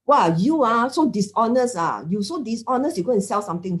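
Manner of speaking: mock accusation. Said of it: "this is a personal attack".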